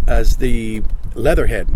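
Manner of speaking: slow Cajun alligator villain; Leatherhead's slow Cajun menace. Acted. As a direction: growl it as a Cajun gator. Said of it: "he talked like that".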